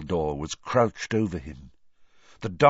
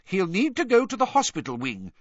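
Fudge talking loudly; 9 semitones higher, faster than usual. A narrator's reading. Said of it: "Fudge was saying loudly".

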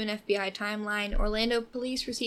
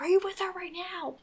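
dispatcher asking; 9 semitones higher than usual. Retold or imitated. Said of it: "And he was like".

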